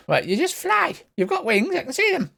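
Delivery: very high-pitched general's retort; high, incredulous little commander; exasperated general. Acted. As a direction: answer back in a high, put-on voice.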